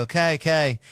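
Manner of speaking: high, loud mimicked insistence; imitated insistent demand. Retelling the man's escalated demand.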